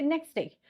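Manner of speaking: NEXT DAY joined, pitched high; high, unhurried "next day"; simple form. Shown as a demonstration. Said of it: "In simple, we say".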